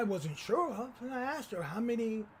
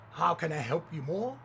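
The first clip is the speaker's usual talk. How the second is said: imitating fawning, eager service; mock-gracious server; effusive courtesy; 3 semitones lower, 3 dB louder than usual. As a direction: offer help with exaggerated politeness. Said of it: "Never such effusive courtesy".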